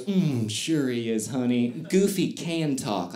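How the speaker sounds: slow, patronizing mom voice; condescending. Retold or imitated. Mom humoring her son about Goofy, slow and condescending. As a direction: humor the child, drawn out. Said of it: "the most condescending thing I'd ever seen".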